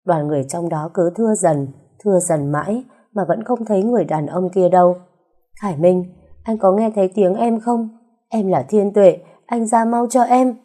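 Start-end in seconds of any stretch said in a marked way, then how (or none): 5.6-10.6 higher, desperate calling into the fire. Acted. Wife calling her husband out of the burning building, desperate. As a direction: shout for him to come out. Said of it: "kêu tới khàn cả cổ".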